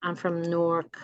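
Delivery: a local "Nork" pronunciation. Shown as a demonstration. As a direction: say "Newark" as "Nork". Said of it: "instead of Newark".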